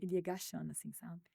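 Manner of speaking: hushed, voiceless whisper as he sinks down. Retold or imitated. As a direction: whisper it like a secret. Man hiding during her talk.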